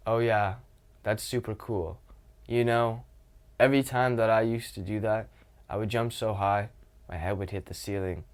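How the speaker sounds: dull, lifeless telling; flat monotone. Shown as a demonstration. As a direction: say it flat like a robot. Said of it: "I'm not gonna tell a joke like this".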